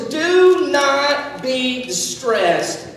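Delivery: very slow, deliberate reassurance; tender comfort, stretched out. Shown as a demonstration. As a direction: lay each word down gently. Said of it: "now he says".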